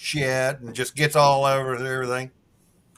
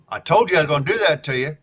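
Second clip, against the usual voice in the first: gloating pirate; 4 semitones higher, faster than usual. Acted.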